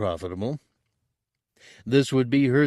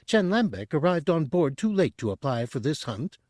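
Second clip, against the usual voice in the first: high, fast eager chatter; high, quick Chadrafan; 6 semitones higher than usual. A narrator's reading. Tooty selling Chen to Bosk, high and quick. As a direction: rush the pitch like a nervous broker.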